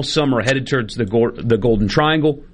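struggling to get words out; tired voice, stumbling over words; voice giving out. Real, not acted. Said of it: "Sorry, I'm struggling to talk at the moment".

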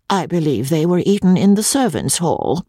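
high, humble reply; humbly. A narrator's reading. Wife humbly explaining where the mutton went. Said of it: "said my lady humbly".

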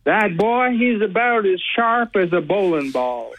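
lightly done Southern rooster drawl, slowed; a hint of a blustery cartoon Southern rooster; Foghorn Leghorn. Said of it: "paraphrase one of my favorite characters, Foghorn Leghorn".

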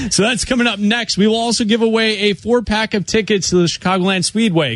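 upbeat radio host read; radio announcer. Acted. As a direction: sell the next segment like a DJ. Host teases upcoming segments.

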